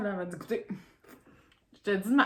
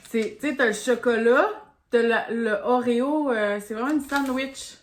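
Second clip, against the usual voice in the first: excited; 3 semitones higher, 6 dB louder, slower than usual. Real, not acted. Excited about the Oreo candy.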